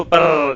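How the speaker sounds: drawn-out purr with a rolled r; imitated cat purr. Shown as a demonstration. Teacher explaining a cat's sound of comfort, imitated purr. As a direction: roll the r like a contented cat. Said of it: "ایک خاص قسم کی آواز نکالتی ہے".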